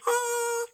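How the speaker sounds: high little laugh; brief amused giggle; short laugh. Real, not acted. Reacts to the Japanese voice clip.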